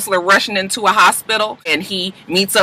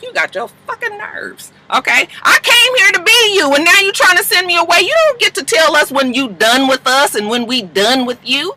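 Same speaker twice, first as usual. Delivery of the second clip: imitating angry; 10 semitones higher than usual. Michaela angry at Annalise.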